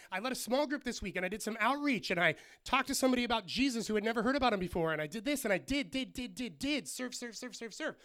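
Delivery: high, mock-busy list piling up; hammed-up run-on, ending in rapid staccato repeats; boastful rattling list. Busy believer listing all their service, mock boasting.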